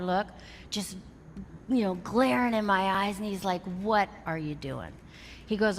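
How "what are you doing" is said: lower, pointed question with a glare; a hint of a stern mentor; stern Bob. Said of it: "he said it in that voice".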